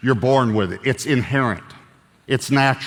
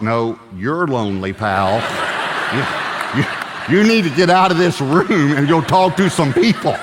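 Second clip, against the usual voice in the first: teasing retort. Retold or imitated. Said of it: "I thought".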